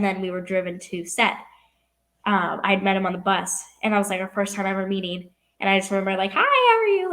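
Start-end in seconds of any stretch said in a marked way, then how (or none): 6.3-7.1 high, loud re-enacted hello; retold eager greeting. Young actress recalls meeting her co-star, retold eager greeting.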